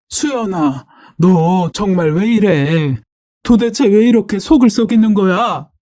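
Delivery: lightly acted weary despair; distressed mother. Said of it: "털썩 주저앉아서 우셨어요".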